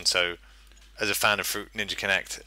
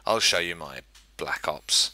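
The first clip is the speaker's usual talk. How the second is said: suggestive; 4 semitones lower, 4 dB quieter, slower than usual. Retold or imitated. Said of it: "sounds like a euphemism".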